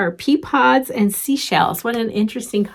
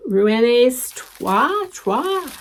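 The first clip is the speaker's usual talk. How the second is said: tentative French pronunciation, lifted high at the end; poor French accent; 4 semitones higher, much slower than usual. Real, not acted. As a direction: attempt the French name in an unsure French accent. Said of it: "my poor French accent".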